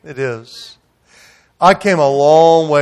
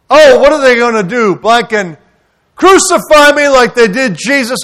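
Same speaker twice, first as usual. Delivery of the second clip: mocking college boy; 8 semitones higher, 6 dB louder than usual.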